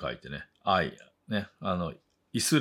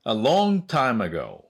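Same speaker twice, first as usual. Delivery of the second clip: slow, louder-than-chat English with "long" stretched high; slow model reading; 4 semitones higher, 4 dB louder, much slower than usual. Shown as a demonstration. Teacher introducing the idiom for learners, slow careful enunciation. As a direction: model it slowly and clearly for learners.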